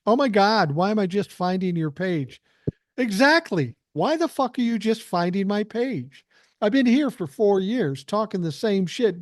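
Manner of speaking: high, fired-up exclamations; riled up and thrilled at a fan; excited. Real, not acted. Excited reply to a viewer.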